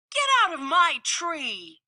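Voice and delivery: a mother squirrel yelling at a bear; fierce scolding. Acted. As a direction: drive the bear out. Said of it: "sprang into action".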